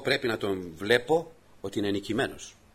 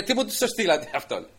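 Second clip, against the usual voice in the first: mocking giant; 9 semitones higher than usual. Goliath mocks the boy.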